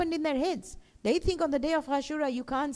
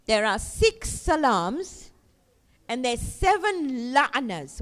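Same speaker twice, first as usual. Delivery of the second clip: slow counting; slower than usual. Shown as a demonstration. Counting slowly for children.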